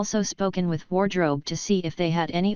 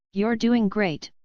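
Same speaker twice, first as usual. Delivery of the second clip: slow, gentle encouragement; reassuring; 3 semitones higher, slower than usual. Acted. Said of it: "Izuku reassured her".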